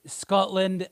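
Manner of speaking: a hint of a Scottish accent; Scottish Trump. Host trying an impression on request, light Scottish accent. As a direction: have a tentative go at Trump gone Scottish. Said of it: "Donald Trump with a Scottish accent".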